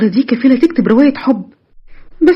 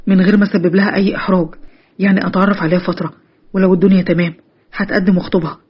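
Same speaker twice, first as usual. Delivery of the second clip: put-on a slightly lower, earnest young man's voice; lightly lowered voice of a sincere young man; 4 semitones lower than usual. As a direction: talk like a serious suitor explaining himself. Ahmed voiced by the narrator.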